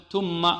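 "ثم" as "tumma", tongue stop instead of th; a plain t opening "ثم"; students' wrong tha. Retold or imitated. Teacher imitating some students' mistake, t for tha. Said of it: "بعض الطلاب يقول".

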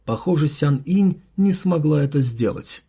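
usual speaking voice

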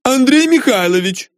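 high female yell; woman calling out. A narrator's reading. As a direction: shout from the next room as a scolding wife. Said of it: "закричал женский голос из комнаты".

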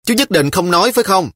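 a hint of a child's hurt anger; sulky child. A narrator's reading. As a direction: challenge him in a pout. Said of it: "giọng giận dỗi".

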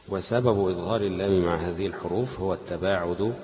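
measured classical Arabic read-aloud; deliberate, fully voweled recital of a text; formal reading aloud. Acted. Reads lesson text aloud.

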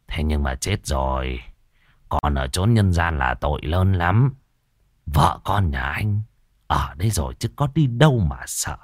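put-on low, measured voice of an old master; calm old exorcist. Old master Tam calmly persuading the ghost to leave.

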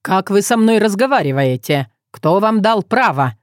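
ordinary delivery

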